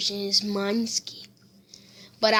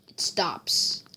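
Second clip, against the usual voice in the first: whispered; 4 semitones lower, 5 dB quieter than usual. A narrator's reading. Suffocating scene fades out.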